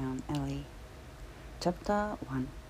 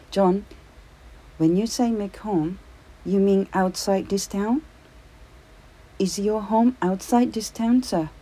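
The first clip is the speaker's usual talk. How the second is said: desperate asking; 6 semitones higher, 9 dB louder than usual. A narrator's reading. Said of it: "Lubici desperately asked".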